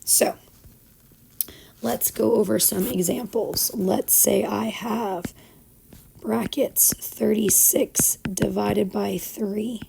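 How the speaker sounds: raspy, worn-out teacher voice; hoarse voice. Real, not acted. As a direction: voice nearly gone, speaking through it. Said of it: "even though I sound all hoarse and sick".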